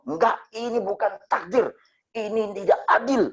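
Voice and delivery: high, upset protest in her voice; grieving widow protesting. Retold or imitated. Grieving teacher refusing her husband's death, high upset protest. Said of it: "Nah, itu dia bilang".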